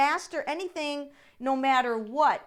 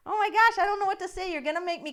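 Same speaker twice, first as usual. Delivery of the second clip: overwhelmed; 7 semitones higher, much faster than usual. Real, not acted. Overwhelmed by viewer generosity.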